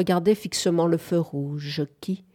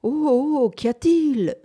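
gently, in a higher voice; gentle voice; 8 semitones higher, 4 dB louder than usual. A narrator's reading. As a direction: ask it gently, pitched up.

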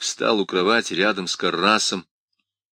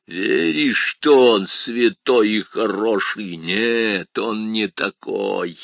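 taunting demon; 4 dB louder, slower than usual. Acted.

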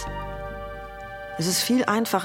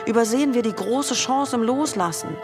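impassioned speech; 5 semitones higher than usual. Acted. Impassioned climax of speech on death.

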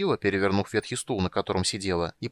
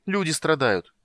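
high, louder reproach; indignant; 7 semitones higher, 5 dB louder than usual. A narrator's reading. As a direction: demand he cares. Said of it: "страстно выкрикнула Тика".

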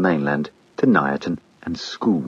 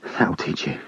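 soft, breathless gloat, trailing off; panting man whispering to the sea; whispered; 7 dB quieter, slower than usual. Acted. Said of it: "and whispered".

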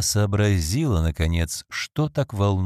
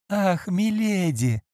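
slow, higher, lamenting cry; plaintive wail; 10 semitones higher, much slower than usual. Acted. Phoebe laments to her mistress, slow and high. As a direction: draw it out like a pitiful maid. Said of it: "жалобно запричитала Фиби".

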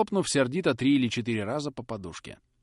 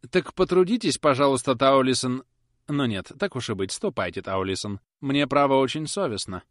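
lightly voiced fussy spinster, raised; dithering lady; 4 semitones higher, 6 dB louder than usual. Miss Tox sending the footman off, fussy. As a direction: changes her mind mid-sentence.

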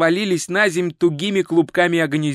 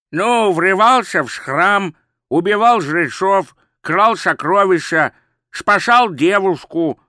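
slow, louder gurgling croak; gurgling fish man croak; 3 semitones higher, 4 dB louder, slower than usual. Acted. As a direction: croak out the list slowly, higher. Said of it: "хлюпающий голос".

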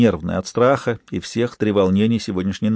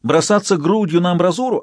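high, louder irritated retort; snapping back; 7 semitones higher, 3 dB louder than usual. A narrator's reading. Lola snapping back at Lyonya on the phone, irritated. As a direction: snap back defensively. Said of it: "огрызнулась она в ответ".

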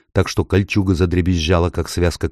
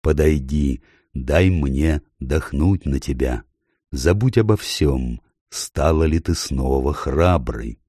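tender reassurance; 2 semitones lower, slower than usual. Acted. Aslan comforts Susan.

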